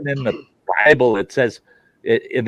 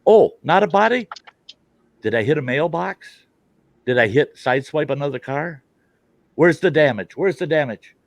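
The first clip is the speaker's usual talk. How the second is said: feigned innocence; 3 semitones higher than usual. Retold or imitated. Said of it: "And I go".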